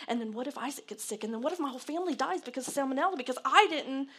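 high, racing worried thoughts; anxious spiralling worry. Acted. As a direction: tumble through the what-ifs in a mounting panic.

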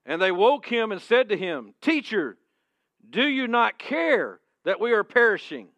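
loud, high scripture reading; preached scripture. Acted. Pastor reading the disciples' cry to his church, preached loud. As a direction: proclaim the verse.

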